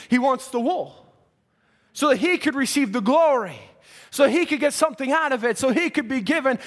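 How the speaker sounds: preaching with rising fervor; impassioned preaching. Real, not acted. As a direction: press the point home like a preacher. Preacher builds on shepherd point.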